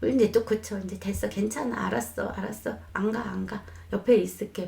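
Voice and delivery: soothing mom. Shown as a demonstration. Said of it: "뭐 막 이렇게".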